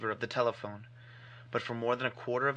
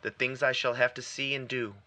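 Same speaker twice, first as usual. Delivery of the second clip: urgent, grave explanation to a friend; earnest warning; 6 dB louder than usual. Acted. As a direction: plead firmly with a nervous friend. Warren explains the danger to Carter.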